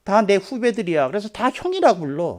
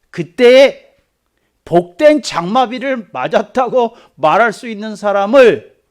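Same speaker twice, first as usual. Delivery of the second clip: loud, raised preaching declaration; pitched up, hammering out the phrase; emphatic proclamation; 5 semitones higher, 10 dB louder, slower than usual. Acted. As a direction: proclaim it forcefully as God's word. Preacher voicing God's emphatic declaration.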